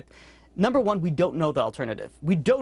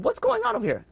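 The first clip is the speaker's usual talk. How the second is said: much higher, bewildered asking; baffled question. Retold or imitated. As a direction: demand an explanation from the rabbi. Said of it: "and they said".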